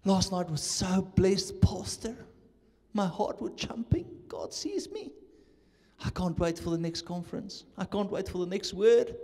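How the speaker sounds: mild mock gush; lightly voiced sweet fan; gushing churchgoer. Preacher retells the churchgoer's gush in English, mild mock gush. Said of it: "Let me say it in English".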